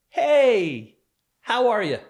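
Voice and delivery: loud, high, breezy "hey, how are you?"; carefree dismissive greeting. Retold or imitated. Abuser casually greeting his victim in the doorway, carefree. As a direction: toss out a big casual hello, brushing them off. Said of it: "you just carefree dismiss me".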